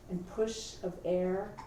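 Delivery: measured poem recital with long pauses; poetry reading. Acted. Reads own poem aloud.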